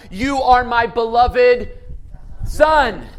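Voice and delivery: a stately voice from the heavens. Acted. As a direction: proclaim it slowly like God speaking from heaven. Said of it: "a voice comes down from heaven saying what".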